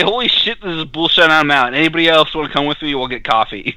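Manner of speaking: high-pitched pretend walkout; mock outburst. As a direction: pitch it up, then rattle off the invitation. Acts out walking out of service.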